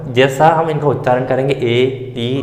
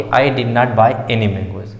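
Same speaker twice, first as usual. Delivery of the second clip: slow example read-out; 3 semitones lower, much slower than usual. Shown as a demonstration. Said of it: "इसमें आपको कोई doubt नहीं हुआ होगा कि".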